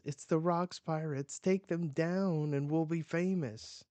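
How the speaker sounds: high, loud battle cry to the crew; rallying shout. Acted. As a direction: fire them up for the attack, loud and high.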